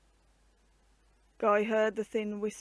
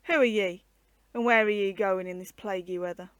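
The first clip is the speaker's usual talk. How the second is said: gruff soldier challenge; 6 dB louder than usual. A narrator's reading. Corporal challenging the traveller.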